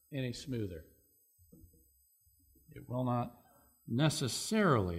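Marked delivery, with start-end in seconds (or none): 3.9-5.0 "necessarily" set apart after a pause, each syllable distinct; stress on necessarily. Real, not acted. Preacher qualifying what baptism will not do, stressing "necessarily". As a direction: spell out "necessarily" deliberately, syllable by syllable. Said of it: "and I stress the word here".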